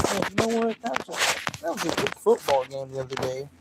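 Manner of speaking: change the subject with fake cheer; forced subject change. Host to Marie, awkwardly dodging the topic, fake casual. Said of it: "can we change this?".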